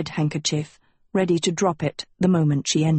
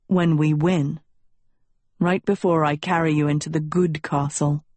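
lightly voiced prince; 3 semitones lower than usual. Tedros voiced, deeper.

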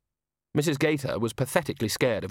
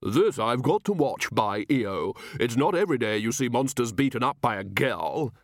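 jovial gentleman guest. Acted. Gruff male guest.

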